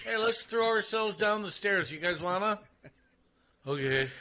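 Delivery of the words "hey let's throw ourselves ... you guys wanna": higher-pitched, mock-eager suggestion; mock party invitation. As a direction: pitch it up like proposing a silly party game. Jokingly voices an imagined party invitation.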